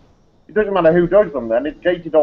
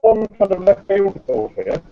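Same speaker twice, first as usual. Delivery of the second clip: glitching audio; slower than usual. Real, not acted. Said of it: "Breaking up".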